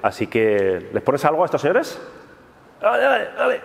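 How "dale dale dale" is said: high, eager call to start; excited call. Real, not acted. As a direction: urge them on to hit play. Cueing the intro to start.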